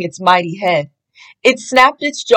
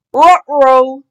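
louder dog-voiced uh-oh, barked out; a worried dog-voiced exclamation, louder; Scooby's Ruh-roh; 4 semitones higher, 4 dB louder than usual. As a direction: bark it like a worried cartoon dog. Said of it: "Scooby barked".

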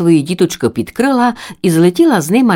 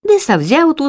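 ordinary delivery

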